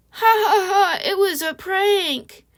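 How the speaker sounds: high, laughing through the words as a smug ex; mocking laugh. Ex laughing off his breakup prank, mocking laugh. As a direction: cackle it off like it's all a joke.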